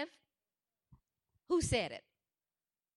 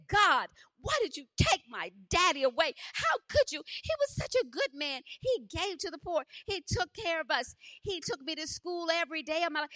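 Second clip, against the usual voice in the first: anguished protest to God; 4 semitones higher than usual. Retold or imitated. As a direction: plead and accuse, retelling a grieving daughter's outburst. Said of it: "I was just crying and weeping".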